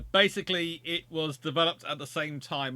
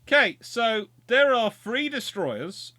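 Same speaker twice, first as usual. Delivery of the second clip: excited; 9 semitones higher, 9 dB louder, slower than usual. Real, not acted. Spots enemy fleet approaching.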